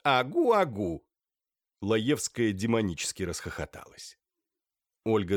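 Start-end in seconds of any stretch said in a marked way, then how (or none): 0.0-1.1 put-on baby babble. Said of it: "мемуары закричат".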